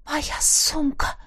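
slow breathless gasp of words; breathed out. A narrator's reading. Heroine realising her bag is lost, breathing it out. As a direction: exhale it in dismay. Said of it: "выдохнула я".

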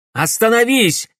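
put-on boy yelling at the thug to stop; shout. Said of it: "крикнул громиле Алекс".

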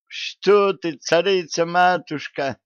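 high, wailing cry of protest; wailing howl. A narrator's reading. Treasurer howls at the queen in high wailing protest. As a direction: howl it out in alarm. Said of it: "взвыл казначей".

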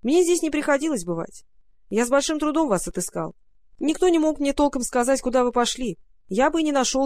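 a friendly little raccoon talking. Acted. Raccoon character speaking.

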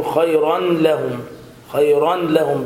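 خيرا لهم with audible n, "khayran lahum"; sounded tanween. Shown as a demonstration. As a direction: imitate the error, n before لهم. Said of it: "بنطق التنوين".

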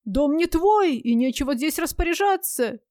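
yelling. Retold or imitated. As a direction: shout it, shaking with anger. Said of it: "трясётся и ну орать".

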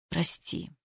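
barely audible, choked-out sorry; muffled forced apology. A narrator's reading. Eva to Ruslan, muffled and choked. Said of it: "глухо выдавила я".

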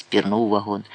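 ordinary delivery, nothing marked

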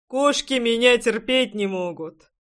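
laughing major. A narrator's reading. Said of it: "захохотал майор".

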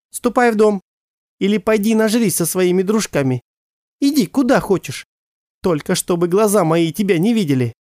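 high, sharp dismissal; angry mother. Acted. Mother to father, furiously sending him away. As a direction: drive him out of her sight. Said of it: "взорвалась мама".

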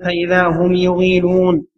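"يغيلون" said yu-gheeloon; damma on ya. Shown as a demonstration. Reader quoting the hadith to show its vowelling, damma on ya. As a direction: open "يغيلون" with a short u after the ya. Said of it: "هو بضم الياء".

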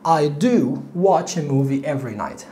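slow model line, press on the word do; stress on do. Shown as a demonstration. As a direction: do held and leaned on, whole line very slow. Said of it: "I بالفعل اللي هي do".

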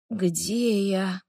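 намного тише, со стоном; простони слабо. A narrator's reading. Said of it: "простонал Вирни". (страдающий эльф тихо стонет, проснувшись)

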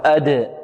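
"أد" with the d released in a short echo; qalqalah on dal. Shown as a demonstration. Teacher demonstrates the letter, "أد" with echoing release. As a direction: bounce the d of "أد". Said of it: "القلقلة".

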